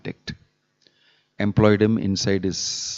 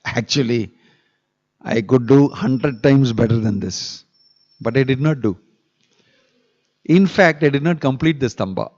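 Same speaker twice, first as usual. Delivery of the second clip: puffed-up boast; 3 semitones higher than usual. Retold or imitated. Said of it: "told the king in puffed up, uh, way".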